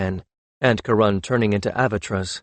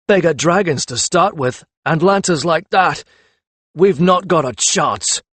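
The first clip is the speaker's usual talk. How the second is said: growled complaint; 6 semitones higher, 5 dB louder than usual. A narrator's reading. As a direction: growl it out, bitter and beaten. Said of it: "the jouster growled".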